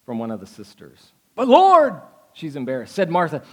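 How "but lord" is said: loud, high objection. Acted. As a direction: burst out in protest. Martha objects to Jesus.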